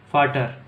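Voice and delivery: "फाटर" with an "f" start and a hard "ट"; German word. Shown as a demonstration. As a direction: model "फाटर", V said as F. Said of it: "अगर अपन फादर लिखेंगे". (German "फाटर", व की जगह फ)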